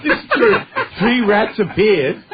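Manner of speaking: can barely get it out for laughing; laughing through words. Real, not acted. Telling a friend the rat story, laughing.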